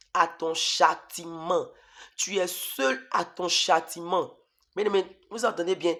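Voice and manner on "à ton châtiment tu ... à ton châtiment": slow devil's voice. Retold or imitated. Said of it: "la voix du diable".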